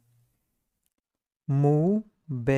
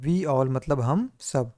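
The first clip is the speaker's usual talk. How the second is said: slow recap; much slower than usual. Shown as a demonstration. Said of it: "We मतलब होता है हम".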